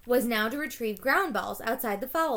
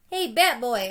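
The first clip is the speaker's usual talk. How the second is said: put-on kid calling out; 6 dB louder than usual. A narrator's reading. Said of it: "a kid called from the stands".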